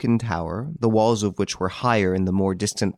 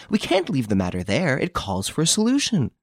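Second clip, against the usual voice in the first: rising, insistent demand; impatient; 7 semitones higher than usual. A narrator's reading. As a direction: press him for an answer. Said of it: "she exclaimed impatiently".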